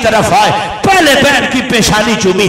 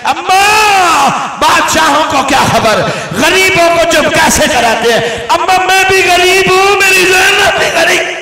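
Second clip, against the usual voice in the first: rising lament plea; 6 semitones higher than usual. Acted. Husain pleads with Fizza, lament peak.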